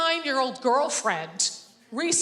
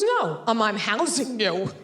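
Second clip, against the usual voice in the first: gruff dad; slower than usual. Retold or imitated. Street-guy dad joking.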